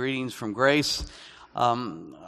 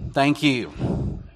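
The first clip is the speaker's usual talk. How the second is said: mock gratitude; 7 dB louder than usual. American teacher answering a backhanded compliment, mock gratitude. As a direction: thank them pointedly for the insult. Mock thanks after a blunt insult.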